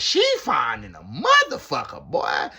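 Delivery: put-on loud, smitten old man voice; smitten cellmate. Cellmate praising the TV host, loud and smitten. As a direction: lay it on loud like a lovestruck old player. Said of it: "He said".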